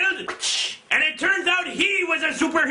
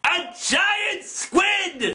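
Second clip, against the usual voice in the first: ordinary talk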